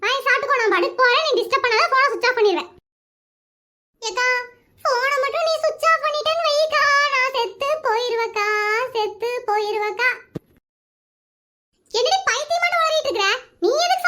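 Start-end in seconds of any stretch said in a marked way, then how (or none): 4.0-10.1 tearful wail. Acted. Hostage begs friend not to switch off, tearful. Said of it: "இப்ப அழுகாம ஒழுங்கா பேச".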